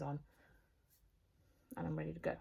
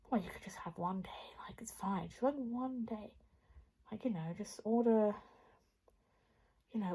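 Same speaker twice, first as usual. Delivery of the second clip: tempting inner voice. Retold or imitated. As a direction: coax yourself in a hushed whisper. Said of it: "I can hear it in the back of my head".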